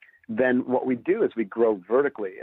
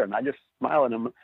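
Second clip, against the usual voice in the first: normal talking voice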